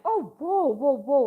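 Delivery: high, loud, delighted whoa; excited whoas. Retold or imitated. Guests greeting the celebrity chef with a loud, excited whoa. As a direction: gasp it out like a thrilled fan.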